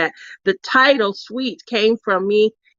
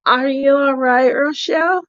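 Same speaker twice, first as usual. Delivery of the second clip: gently lilting check-in, higher at the end; calm concern; 3 semitones higher than usual. Retold or imitated. Friend checking on her fallen roommate, calm concern. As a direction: imitate a sweetheart calmly checking on someone. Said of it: "It was so calm".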